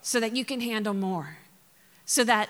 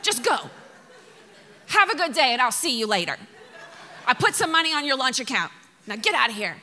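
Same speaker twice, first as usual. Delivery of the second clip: acted-out exasperated school drop-off; raised, hurried parental send-off, played for laughs; fed-up parent; 2 semitones higher, 3 dB louder, faster than usual. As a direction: hustle the kids off impatiently. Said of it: "Or you gotta take them to school".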